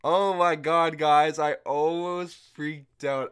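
loud, high burst of amazement; excited. Real, not acted. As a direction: blurt it out, still buzzing. Reacting to summon.

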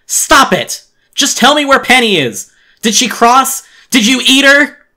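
very high, screamed interrogation; frantic shouting. Acted. Boy demanding to know Penny's fate, frantic shouting. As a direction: cut him off with desperate screamed questions.

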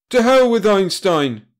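slow, loud, high roar. A narrator's reading. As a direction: roar down the objection. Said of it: "roared Brad".

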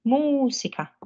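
"Музика" with a clear Spanish stress, Música. Shown as a demonstration. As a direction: lean hard on the stressed syllable of "Музика". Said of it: "З наголосом". («Музика» з чітким наголосом)

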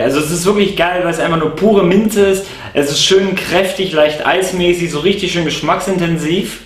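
hose tip touching mouth; speaking around hookah mouthpiece; talking with mouthpiece at lips. Real, not acted. Seen 2: Holds hookah mouthpiece against lips while speaking throughout.

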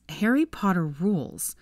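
slow, breathy whisper of the carved words; slow horrified whisper. Acted. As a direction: hush it as if reading it in horror. Reading the engraved words aloud.

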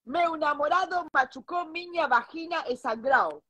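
put-on slow, careful Portuguese with a Spanish accent; broken Portuguese. Telling the doctor what happened, in broken Portuguese. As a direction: spell it out in clumsy Portuguese. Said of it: "armé una frase".

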